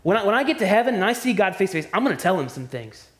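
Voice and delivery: hammed-up indignant rant at God; mock defiant complainer. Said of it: "say something like this".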